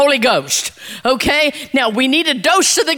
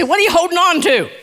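prompting the congregation; 4 semitones higher, faster than usual. Shown as a demonstration. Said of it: "Look at your neighbor and say".

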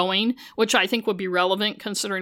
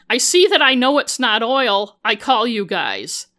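bad Boston accent; 5 dB louder than usual. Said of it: "in a bad Boston accent that sounds more like a New York accent".

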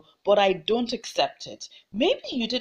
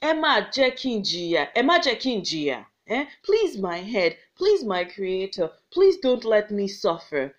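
crying out to ancestors; 3 semitones higher than usual. Acted. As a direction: beg the ancestors in anguish. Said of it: "she cried out to her ancestors".

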